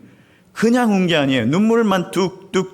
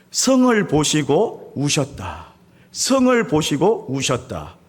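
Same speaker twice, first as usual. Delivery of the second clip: slow solemn reading; 3 semitones lower, slower than usual. Shown as a demonstration. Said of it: "이렇게 이야기하죠".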